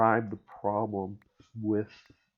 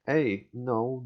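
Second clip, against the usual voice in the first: imitated indignant whine, louder; mock whining; 3 semitones higher, 5 dB louder than usual. The other side arguing back, mock whining. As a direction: push out a mock protest. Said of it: "see the other side whining".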